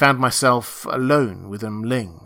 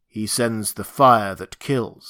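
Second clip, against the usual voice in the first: slow ritual recitation; slow, mildly deepened creature voice; deep voice; 3 dB louder, slower than usual. Acted. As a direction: recite it deliberately, like scripture. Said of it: "said he in his deep voice".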